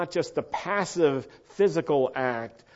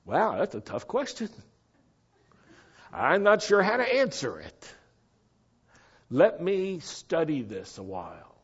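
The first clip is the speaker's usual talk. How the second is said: higher-pitched, hesitant stumped reply; mock puzzlement; 4 semitones higher than usual. Preacher playing a teacher stumped by the question, mock puzzlement. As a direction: act stumped, pausing between thoughts.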